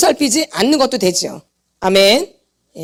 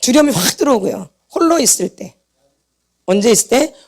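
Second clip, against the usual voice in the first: ordinary talk, nothing marked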